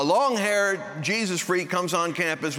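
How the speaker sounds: ordinary talk, nothing marked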